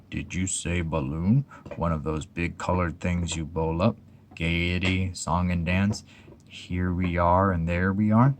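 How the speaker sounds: mope about balloons with dry gloom; gloomy Eeyore. Acted. Eeyore's voice in story.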